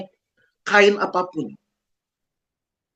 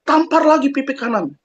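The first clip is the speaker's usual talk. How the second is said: raised-pitch, combative imitation of a TV preacher; mock militant advice, higher and emphatic; Mama Dede; 5 semitones higher than usual. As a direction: fire back a scolding call to fight, pitched up. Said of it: "Mama Dede langsung bilang gini".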